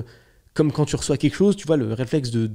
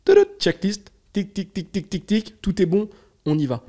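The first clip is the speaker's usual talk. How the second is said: high-pitched little checklist alarm; petite alarme; 8 semitones higher, 4 dB louder than usual. Acted. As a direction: chirp it like an alert ticking off items. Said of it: "cette petite alarme qui me dit". (petite alarme aiguë qui égrène sa checklist)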